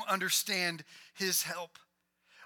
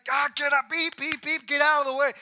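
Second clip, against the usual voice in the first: louder, higher hammed-up honking; frantic driver; 5 semitones higher, 8 dB louder than usual. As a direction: play the stuck driver beeping at traffic. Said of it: "he's like".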